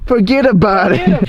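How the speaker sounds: slow, drawn-out "forget about it"; tossed-off gangster catchphrase; mock mobster voice.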